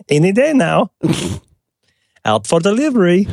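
high, laughing through the words; laughing joke. Acted. Laughing while mocking the mail service. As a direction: giggle out the sarcastic line. Joking about slow postal delivery.

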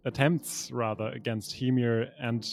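measured, deliberate scene setting; storyteller laying out a grand council; game master narration. Acted. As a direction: read out the scene like a storyteller, pausing between phrases. Reads pre-written scene narration.

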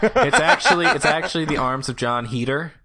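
laughing while correcting; giggling through it. Real, not acted. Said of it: "that's a much better spell".

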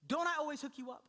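high-pitched, exasperated appeal; worked-up parent's catchphrase; pleading dad. Retold or imitated. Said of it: "this is the one line I give him".

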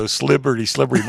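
"Slibberty" slurred together, Pittsburgh style; Pittsburgh accent. Retold or imitated. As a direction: playfully say "Slibberty" like a Pittsburgh local. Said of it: "and I always go".

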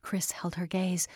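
ordinary delivery, nothing marked

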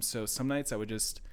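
out of breath mid-sentence; gasping, short on air; running out of air. Real, not acted. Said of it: "I'm running out of breath here".

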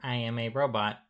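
flat, even robot monotone. Pretend. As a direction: speak like a toy robot. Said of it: "Why you talk like that?".

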